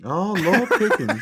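drawn-out exclamation like a granny; old woman voice. Acted. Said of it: "I've gotta talk like a grandma".

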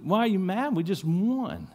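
can't understand the anger; a confused jockey pleading; puzzled jockey. Retold or imitated. Jockey puzzled by angry farmer.

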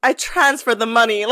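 lightly imitated Russian-German-American accent; a hint of the scammer's mixed European-American accent; scammer's muddled accent. Sunglasses-wearing scammer to deli staff, lightly mimicked muddled accent. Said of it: "accent that I, I wanna try to do it".

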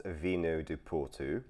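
slow, careful try at Portuguese; non-native attempt at Portuguese; attempted Portuguese pronunciation. Shown as a demonstration. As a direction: have a go at a Portuguese accent on "Vinho do Porto". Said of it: "that was my attempt at the Portuguese pronunciation".

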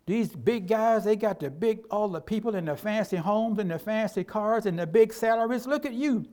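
a preacher voicing the devil's sneer; mocking devil voice. Pastor voicing the devil mocking his small church, mocking. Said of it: "He says".

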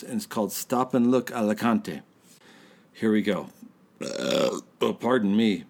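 tipsy, slurring chatter. Real, not acted. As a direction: talk like you've had a few drinks. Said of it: "in a less inebriated state of mind".

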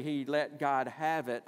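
"have" punched for emphasis; stress on have. Shown as a demonstration. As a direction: lean firmly on "have". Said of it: "the emphasis on the word have is important".

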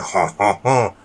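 mock French Canadian laugh; hammy French Canadian "ha, ha, ha"; fake French Canadian accent. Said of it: "that little fake French Canadian accent".

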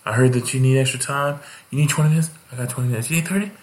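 eager feature comic. Retold or imitated. The feature comic offers to stretch, eager and rising. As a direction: hype it up like an overeager comic offering time. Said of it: "he goes up, he's like".

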